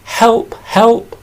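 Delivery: high, small pleading bee voice; bee crying for help. Acted. Trapped bee under the glass begging for help, high and pleading. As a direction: squeak out a desperate plea from under the glass. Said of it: "Let's say it together".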